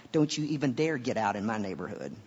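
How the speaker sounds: quick, low, lightly voiced urban navigator; mock urban warning, slightly low; urban GPS voice. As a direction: warn them off fast, half-playing the role. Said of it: "an urban one that would go like".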